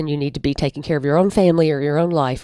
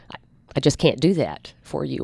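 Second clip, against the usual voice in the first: calm, no edge; 3 dB quieter than usual. Shown as a demonstration. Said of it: "there's no edge in my voice".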